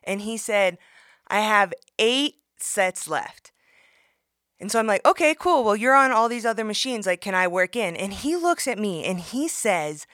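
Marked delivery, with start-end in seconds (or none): 1.3-3.5 mock gym guy. Gym guy's slow reply. 5.1-7.9 high, bright polite ask; sugar-coat the request; mock friendly sweetness; sweetly polite. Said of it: "I'm being real nice".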